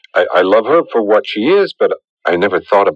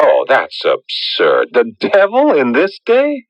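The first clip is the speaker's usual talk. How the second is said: incredulous scoff; 4 semitones higher, slower than usual. Acted. Scoffs at pact with devil.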